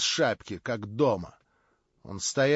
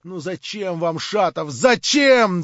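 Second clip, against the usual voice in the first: breathless patter; 4 semitones higher, 6 dB louder, slower than usual. A narrator's reading. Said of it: "задыхающейся скороговоркой".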